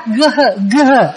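gơ with breath pushed out after the g; gơ said as g plus h; aspirated. Shown as a demonstration. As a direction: puff air out on each gơ. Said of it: "bật hơi ra".

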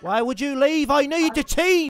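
cocky mock Irish accent, lightly done; a gamer playing brash Irish fighter Conor McGregor; swaggering put-on Irish brogue. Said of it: "My name's Conor McGregor".

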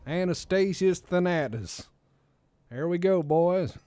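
loud, high Southern twang; Southern accent. Shown as a demonstration. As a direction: holler it in a put-on Southern accent. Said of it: "I could say it in Southern accent".

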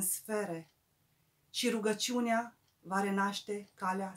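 measured, solemn poem reading with pauses; poetry recital. Acted. Poet reciting "Lumină de Stea" to poetry lovers, measured recital. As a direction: recite in phrases, lifting the openings and letting endings fall.

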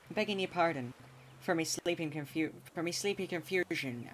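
a light put-on pirate accent, close to his own voice. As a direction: lightly play a hammed-up pirate captain with a pirate accent. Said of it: "I can't do that accent".

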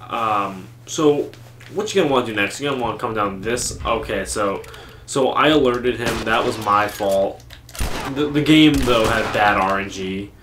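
loud tutorial-style speedrun commentary; speedrunner. Pretend. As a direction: narrate the run like a YouTube guide. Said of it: "Speedrun commentary?".

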